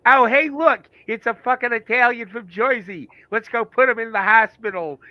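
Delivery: a hammed-up street tough calling out; tough guy bravado. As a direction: play the brawling hometown tough. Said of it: "I'd be like".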